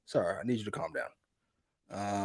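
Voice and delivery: quietly imitating a hooligan's deep voice; slow, low-key menace, playful; mock deep serious voice. Co-host imitating Ospreay's deep serious voice. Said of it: "His voice is all deep and shit".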